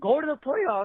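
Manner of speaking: cracking, breaking voice on the words. Caller hyping up the team's playoff run: voice cracking. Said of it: "damn, my voice cracked".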